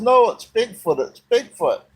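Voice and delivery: put-on retelling the scared girl's panic at the roof noises; panicked insistence. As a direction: imitate a terrified teen insisting it's Bigfoot. Scared girl flipping out at noises.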